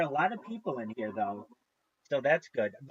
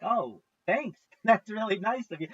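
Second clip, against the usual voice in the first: higher-pitched, mock-grateful reply with a little laugh; pleased thanks; 7 semitones higher, 5 dB louder than usual. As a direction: play a pleasantly surprised stranger saying thanks. Acts out grateful cafe customers.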